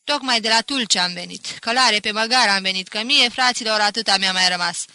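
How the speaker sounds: loud, animated public complaint; loud storytelling. A narrator's reading. Pinto tells villagers of his stolen sheep, loud. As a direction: declaim it to the whole tavern.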